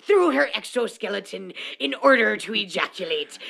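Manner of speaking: hammy pirate narrating; cartoon pirate, one eye shut. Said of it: "Do you like my pirate voice?".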